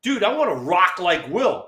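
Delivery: lightly voiced eager teammate. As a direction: ask like a kid wanting in. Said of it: "Kevin Mitchell goes up to Dusty and goes".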